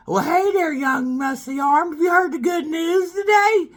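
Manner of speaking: high, slow baby-villain voice from a cartoon; Stewie impression. Mocking the Family Guy creator as his baby character, high and hammed-up. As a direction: camp it up as a scheming cartoon baby. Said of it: "Little Stewie's making fun of me".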